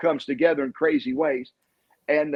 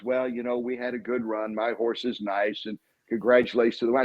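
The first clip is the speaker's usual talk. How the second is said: bland gracious owner; 4 semitones lower than usual. Retold or imitated. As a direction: lightly parody a dull gracious owner. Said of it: "He wasn't one of those".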